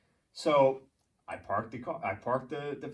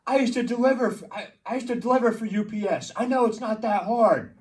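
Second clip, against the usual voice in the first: higher, louder snooty voice; higher, louder imitation of an annoying woman; mocking the lady; 9 semitones higher, 7 dB louder than usual. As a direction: mimic her know-it-all tone. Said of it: "she's like".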